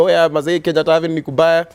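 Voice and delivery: a hint of a protester radioing in; imitated walkie-talkie warning. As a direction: pass on a quick heads-up over walkie-talkie. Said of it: "it's like a walkie-talkie thing".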